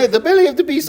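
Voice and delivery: high, loud-ish impersonation of a lecturer; comic grave pronouncement, voice high; Jordan Peterson. Acted. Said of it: "I've been working on that impression".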